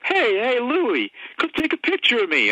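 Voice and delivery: lightly voiced actor calling for a photo. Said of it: "out of nowhere, I hear".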